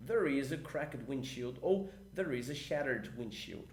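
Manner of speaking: slow, careful English model line; slow model sentence. Shown as a demonstration. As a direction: read it slowly to the class. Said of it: "Como é que ficaria?".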